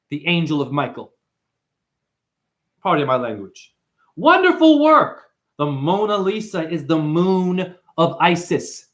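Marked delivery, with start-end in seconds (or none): 4.1-5.2 mock praise. Mock sweet praise aside.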